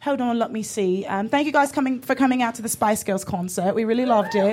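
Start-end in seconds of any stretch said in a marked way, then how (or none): 1.1-4.5 a lightly British pop-star thank-you to the crowd; a hint of a Spice Girl addressing fans. Shown as a demonstration. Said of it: "get in the zone".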